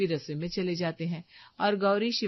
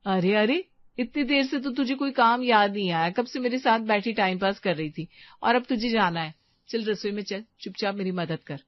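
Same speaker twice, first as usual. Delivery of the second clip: louder, playful telling-off of a friend; mock scolding; 3 semitones higher, 5 dB louder than usual. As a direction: scold her teasingly for slipping away. Friend tries to slip away. (झूठी डांट, ऊँची आवाज़ में)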